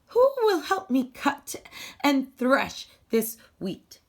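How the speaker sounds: the little hen asking her friends for help; hopeful hen asking. Acted.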